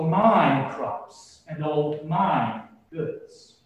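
slow, deliberate self-talk of a rich planner; preacher voicing the rich man planning his barns, slow and deliberate; rich man musing to himself. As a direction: weigh each plan aloud, slowly, like a self-satisfied landowner. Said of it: "You can hear it in his speech".

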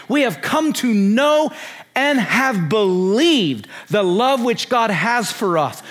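slow, insistent re-reading of scripture; emphatic scripture reading. Acted. Preacher urging listeners to hear what John says, slow and emphatic. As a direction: press each phrase of the verse home slowly.

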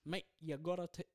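mock Aussie accent, lightly done; a playful Aussie bloke; Australian accent. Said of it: "That's an Aussie version".

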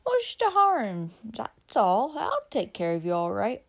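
slow, slurred and dismissive; lightly voiced drunk man. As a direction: brush off her worry, drunk. Drunk Jim presses her.

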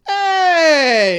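high, loud yelp; shocked shout. Real, not acted. A host reacting to her co-host's cheeky guess with a high shout. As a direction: yell it like you've been scandalised.

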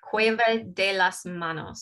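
Spanish with a thick American accent. Real, not acted. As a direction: say Cueva de las Manos like an English speaker. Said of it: "Sorry for my terrible Spanish".

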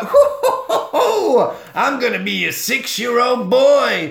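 very high, loud hooting cries into a wail; high, loud hammed-up hooting panic; mock panic hoots. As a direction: hoot like a frightened spirit, then whine. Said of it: "he's like".

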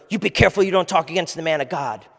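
lightly mocked threatening preacher; a hint of mock-stern pulpit threat; warning pastor. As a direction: imitate a pastor issuing a dire warning. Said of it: "there are pastors I hear where".

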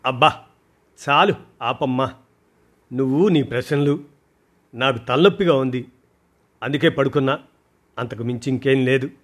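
mildly fed-up, wave off the questions; annoyed. Acted. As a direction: daughter brushing mother off, mildly annoyed. Daughter brushes off mother's questions.

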